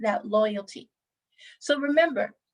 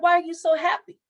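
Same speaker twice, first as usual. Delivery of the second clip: confused customer; 6 semitones higher, 3 dB louder, faster than usual. Retold or imitated.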